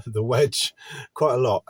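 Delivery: laughing. Real, not acted. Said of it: "I'm laughing, but it's not funny".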